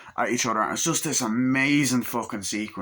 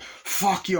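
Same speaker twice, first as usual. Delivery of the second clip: mock angry; 9 semitones higher than usual. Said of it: "It's like".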